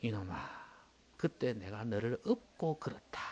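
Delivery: slow, soft fatherly answer; lightly voiced God, gently slow; God's reply. God answering the complaining man, slow and soft. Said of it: "하나님 하신 말씀 있죠".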